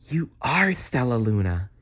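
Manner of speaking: hushed unvoiced whisper. Mother bat to her lost baby, hushed whisper. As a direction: breathe the name in wonder. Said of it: "she whispered".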